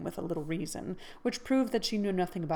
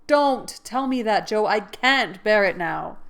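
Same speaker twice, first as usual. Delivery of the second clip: higher, louder, slow fierce protest; fierce cry; 3 semitones higher, 8 dB louder than usual. Acted. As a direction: cut her off in anguish. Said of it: "cried out in a fierce tone".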